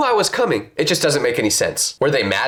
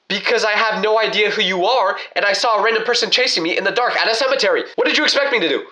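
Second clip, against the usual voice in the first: a hint of a flustered stranger; 6 semitones higher than usual. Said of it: "he goes".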